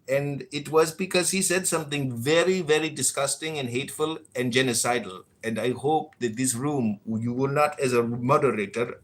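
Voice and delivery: a lightly put-on Indian accent, too anglicized. Showing off an Indian accent to the room moderator. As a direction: play the Indian accent half-seriously, a touch loose. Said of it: "Wait till you hear his Indian accent".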